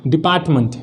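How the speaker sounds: "डिपार्टमेंट" ending in a weak "munt"; correct pronunciation. Shown as a demonstration. Teacher answering her own question, correct pronunciation. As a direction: say "डिपार्टमेंट" with a schwa before the final nt. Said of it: "क्या होता है?".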